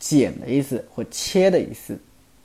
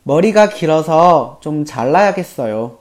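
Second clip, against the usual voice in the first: quick, fluent Korean; fast native-speed read; fast natural reading; 2 semitones higher, 4 dB louder, much faster than usual. Shown as a demonstration. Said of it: "今天的每日一句".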